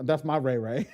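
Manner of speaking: a real laugh running through the words; chuckling while calling him Ray Ray. Real, not acted. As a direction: laugh it out fondly. Fond laugh about Ray.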